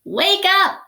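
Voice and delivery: high, loud yell. Acted. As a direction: yell at the leaf to wake up. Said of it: "she yelled".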